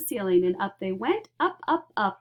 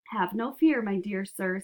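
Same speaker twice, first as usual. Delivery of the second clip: calmly. Acted. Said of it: "said Mister Wonka calmly".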